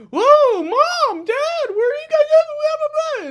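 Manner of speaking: very high, loud mock panic, calling for parents; mocking the character. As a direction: squeal it like a lost girl hamming it up. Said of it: "And then she's like".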